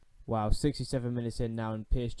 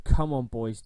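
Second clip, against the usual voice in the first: rallying call; 8 dB louder, slower than usual. Real, not acted. Urging team before match.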